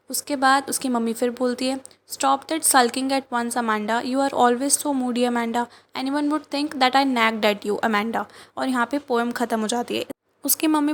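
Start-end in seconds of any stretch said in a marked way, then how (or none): 2.1-8.2 slow, measured poem reading; poem recitation. Acted. Teacher reading the mother's nagging to class, slow recitation. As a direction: read each line slowly, pausing on Amanda.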